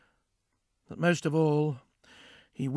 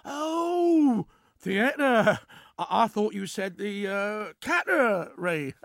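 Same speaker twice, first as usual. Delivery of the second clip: confused surprise; 6 semitones higher, 4 dB louder, much slower than usual. Acted. Jeff mishears, confused exclamation.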